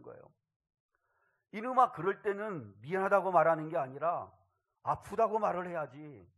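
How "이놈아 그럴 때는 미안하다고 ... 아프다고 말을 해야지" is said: louder, exasperated father's reproach; retold angry scolding. Pastor father scolds son for apologizing instead of complaining, exasperated. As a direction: act out a dad scolding out of hurt. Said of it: "화가 확 치밀어 오르더라는".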